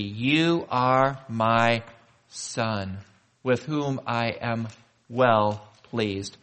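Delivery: very slow, spaced-out blessing; gentle, solemn correction of the misquote; affirming blessing. Acted. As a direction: linger on each word as a loving father.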